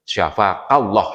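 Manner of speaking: Syafakallah said slowly, each syllable clear; slow, careful Syafakallah; correct Arabic prayer. Shown as a demonstration. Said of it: "kalau laki-laki".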